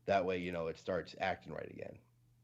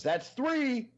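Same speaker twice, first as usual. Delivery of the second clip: much higher, louder deadpan count; mock angry count; 7 dB louder than usual. Amish man after shooting his horse, hammed-up stern shout. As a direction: fire the number off like a verdict. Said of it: "He shoots it and he goes".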